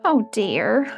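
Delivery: sad sigh. Acted. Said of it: "she started to cry again".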